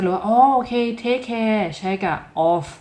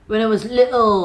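higher, put-on British accent; 4 semitones higher, 4 dB louder, much slower than usual. Shown as a demonstration. Teacher repeats the model learners needn't copy, British accent. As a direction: say it as a demonstration of British English. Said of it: "สำเนียงแบบ British".

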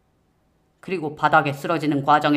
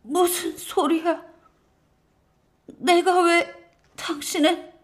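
high, halting, wounded woman; pained disbelief; 14 semitones higher, slower than usual. Acted. Dying wife answers husband's accusation, pained high voice. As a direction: struggle to question him through pain.

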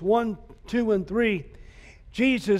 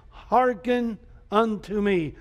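solemn scripture quote; slower than usual. Acted. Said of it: "In other words".

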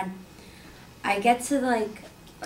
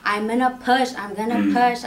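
imitated labor yell; 2 semitones higher, 7 dB louder than usual. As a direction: imitate a woman crying out in labor. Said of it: "hearing her scream and yell".

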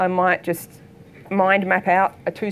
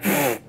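pig huff; 5 semitones lower than usual. Retold or imitated. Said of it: "And she was like".

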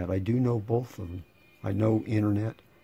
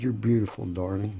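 sarcastic. Real, not acted. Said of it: "More sarcasm from me".

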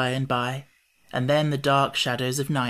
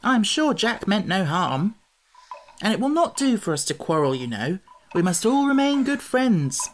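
put-on higher-pitched, mildly placating boy; smooth things over in a lifted voice; soothing; 6 semitones higher than usual. A narrator's reading. Boy making peace between companions, mildly soothing. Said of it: "answered Tip soothingly".

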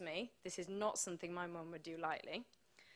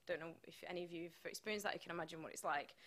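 hushed aside; 3 semitones lower, 6 dB quieter, faster than usual. Real, not acted. Aside about being told she was dying.

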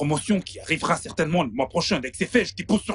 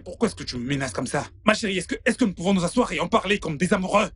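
urgent plea, rising higher and faster; desperate pleading; 4 semitones higher than usual. Acted. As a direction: beg the lover to talk, growing more frantic. Man pleads as she threatens to leave.

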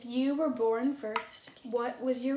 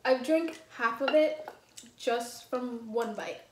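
slow words through a burning mouth; mouth on fire; slower than usual. Real, not acted. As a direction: talk past burning lips. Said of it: "I'm stumbling over my words 'cause my mouth is on fire".

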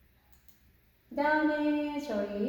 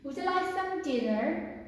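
very slow, every word laid out for learners; slow, careful classroom English; slow model reading; 6 semitones higher, much slower than usual. Shown as a demonstration. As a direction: read it slowly like a teacher modelling. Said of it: "물어보고 답변하고".

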